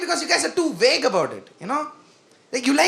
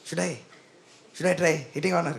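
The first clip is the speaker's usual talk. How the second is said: much softer, lower, unsure friend; timid whispered ask; 7 semitones lower, 8 dB quieter than usual. Retold or imitated. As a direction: ask for permission nervously. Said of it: "They're like".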